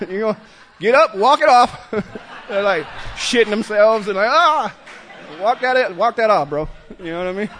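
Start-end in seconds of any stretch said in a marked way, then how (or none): 0.8-1.9 slow, louder, higher mock order through laughter; a laughing fake drill sergeant; mock coach laughing. 4.3-6.7 a giggling fake pep talk; laughing mock coach.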